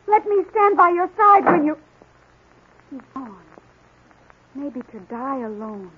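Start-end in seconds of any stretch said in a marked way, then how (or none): 0.1-1.8 eager plea. Acted. Pleading with departing hero.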